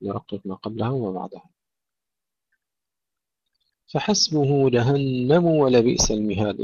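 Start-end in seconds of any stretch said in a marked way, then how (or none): 3.9-6.6 جهنم linked as jahannamu wa; full damma. Shown as a demonstration. Teacher modelling for students, clear damma on جهنم. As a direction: round out the u of جهنم before ولبئس. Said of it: "ننتبه إلى ضم الميم".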